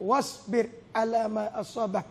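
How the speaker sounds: soft, hushed recitation of the verse; quiet recitation. Acted. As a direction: murmur the verse gently as to a child.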